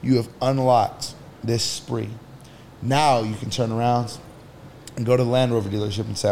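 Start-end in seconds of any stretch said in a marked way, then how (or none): 0.0-2.1 app notification voice. Retold or imitated. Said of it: "Your Credit Karma will ding at you and say".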